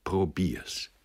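grim short reply; understated grim dare; dark retort. A narrator's reading. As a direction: answer darkly, challenging. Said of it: "erwiderte er finster".

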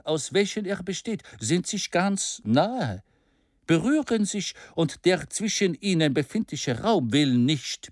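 confident speech to a crowd, building; a lightly voiced bold orator; orator's speech. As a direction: persuade the whole assembly. Ardan's rousing speech.

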